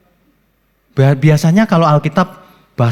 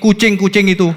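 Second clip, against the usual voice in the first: a higher, laughing mock quote; joking, lifted pitch breaking into laughter; amused mock softening; 5 semitones higher than usual. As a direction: offer the silly substitute with a laugh. Mock softened translation, then laughs.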